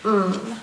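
"Mm" as a closed-lip hum; hummed consonant "Mm"; M sound. Shown as a demonstration. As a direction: demonstrate the letter's sound as "Mm". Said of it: "his sound though says".

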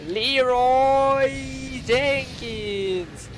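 loud, high charging yell; battle cry. Pretend. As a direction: shout it as you charge in.

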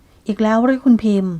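a tired 'not this again'; weary exasperation. Acted. Suda, fed up with Pim's scenes yet again, weary exasperation. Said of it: "บอกถึงความเหนื่อยหน่ายเป็นอย่างยิ่ง".

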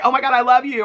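high-pitched imitated gush; put-on fangirl excitement; mock gushing. Mimicked gushing greeting.

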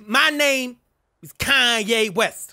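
a put-on rapper voice, brash and cocky; impression of a famous rapper. Trash-talking strangers in game chat, brash rapper voice. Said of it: "You guys wanna hear my real voice?".

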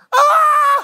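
loud, very high crying scream; mock baby wail. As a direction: imitate a baby bawling at full blast. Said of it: "Saya ini kan nangis".

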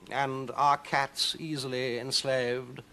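slow, lazy cat voice; cat Victor. Acted. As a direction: savour the question.

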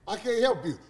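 ordinary talk

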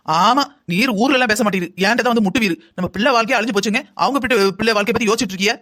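irate wife's scolding; sputtering tirade. Acted. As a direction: rattle off bitter complaints at your husband. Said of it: "பொறி பொறின்னு பொறிஞ்சு தள்ளிக்கிட்டு இருக்காத". (பொரிந்து தள்ளும் கோபக் குரல்)

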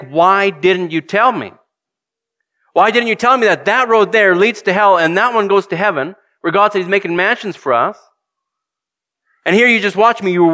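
high, pleading why-didn't-you-tell-me; a wounded reproach, rising high; reproachful lost soul. Retold or imitated. Damned coworker accusing the silent Christian, pleading high.

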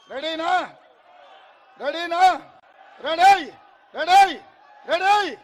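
loud rising calls of ready; rally leader's shout; hyping the crowd. Real, not acted. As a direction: pump up the crowd. Hyping crowd before chant.

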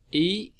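drawn-out model of the stressed sound; stressed vowel. Shown as a demonstration. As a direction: isolate the stressed "ý" with a lift. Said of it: "Nhấn âm một là ý nè".

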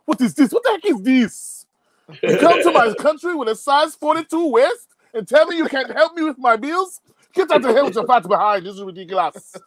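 mock outrage. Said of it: "I'm like".

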